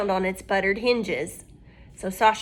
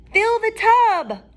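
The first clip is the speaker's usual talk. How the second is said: high, louder cat voice, kindly; cat soothing the crying girl; talking cat; 9 semitones higher, 6 dB louder than usual. Acted. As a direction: comfort her as a little cat. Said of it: "said the cat".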